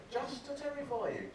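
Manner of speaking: normal talking voice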